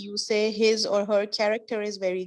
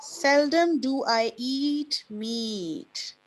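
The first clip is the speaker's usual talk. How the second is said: Seldom drawn out slowly and stressed first; slow model answer; 2 semitones higher, much slower than usual. Shown as a demonstration. Teacher models the correct answer for the class, slow and deliberate. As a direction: model Seldom do I eat meat slowly and clearly.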